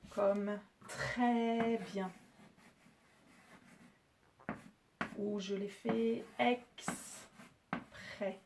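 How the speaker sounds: "très" and "exprès" drawn out slowly to show the open è; slow example words. Shown as a demonstration. Teacher giving pupils accent grave examples, slow. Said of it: "regardez bien".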